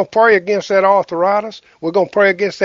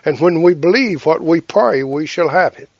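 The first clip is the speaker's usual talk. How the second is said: healing prayer. Acted.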